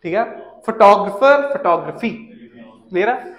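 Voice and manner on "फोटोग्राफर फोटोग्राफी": फोटोग्राफर, फोटोग्राफी on TOG, lower; correct shifted stress. Shown as a demonstration. Teacher recapping for students, फोटोग्राफर and फोटोग्राफी stressed on TOG. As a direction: reduce "photo" to "fuh-TOG" in फोटोग्राफर, फोटोग्राफी. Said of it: "ना कि फोटोग्राफी".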